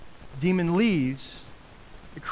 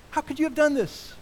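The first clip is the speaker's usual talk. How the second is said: higher, louder chastising; scolding a neighbor; 10 semitones higher, 4 dB louder than usual. Pretend. Chastising a neighbor you barely know, sharp scolding. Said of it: "To your neighbor".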